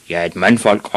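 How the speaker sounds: firm, impatient dad; shouted. Acted. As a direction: answer with a touch of a shout. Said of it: "råbte hans far".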